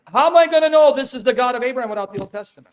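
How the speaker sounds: loud, exasperated repeated question; heated demand. Real, not acted. Repeats unanswered question in heated debate.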